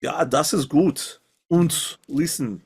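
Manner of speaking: mild hammed-up German accent. GM playing the hunter, in a mild mock German accent. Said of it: "my pure German".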